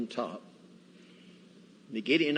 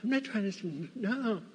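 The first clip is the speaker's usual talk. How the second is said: flustered denial; 9 semitones higher than usual. Retold or imitated. Accused of smuggling by soldiers.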